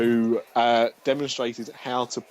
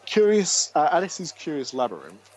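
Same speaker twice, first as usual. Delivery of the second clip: whisper; 2 semitones higher, 3 dB louder than usual. Real, not acted. Whispered name of the ride.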